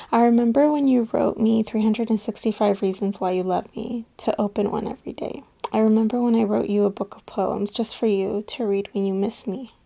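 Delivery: earnest reading of a love note; heartfelt letter read aloud; poem reading. Acted. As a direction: read it sincerely, line by line.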